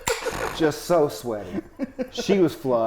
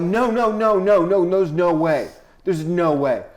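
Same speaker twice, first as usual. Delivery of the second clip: panicked denial; 3 semitones higher, 4 dB louder than usual. Retold or imitated. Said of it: "And I panic".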